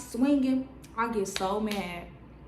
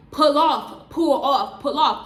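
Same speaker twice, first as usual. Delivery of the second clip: urgent mock call; 5 semitones higher, 8 dB louder, slower than usual. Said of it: "he calling his homeboy".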